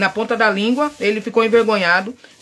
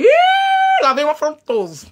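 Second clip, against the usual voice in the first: mock wary scoff; 4 semitones higher, slower than usual. Sizing up a rude man.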